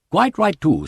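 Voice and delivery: high, forceful "Quite right, too"; emphatic. A narrator's reading. Wimsey agreeing with old solicitor on cocktails, emphatic. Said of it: "said Wimsey emphatically".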